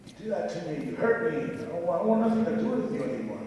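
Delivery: hint of a hurt little boy, pitch climbing; frightened little boy. Man reverting to a little boy before his horse, mildly afraid. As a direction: rush the end like an upset kid. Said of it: "get afraid and turn to this little boy again".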